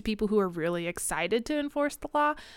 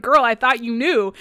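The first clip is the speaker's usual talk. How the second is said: louder, laughing through a teasing line; laughing mock quote; 3 semitones higher, 9 dB louder than usual. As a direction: tease her while cracking up. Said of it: "He's like".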